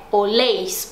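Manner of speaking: "oléis" stressed on its ending; "oléis", weak start and strong last syllable; stress on final syllable. Shown as a demonstration. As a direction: put the weight on "léis" in "oléis". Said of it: "a sílaba tônica não tá no começo e sim no final".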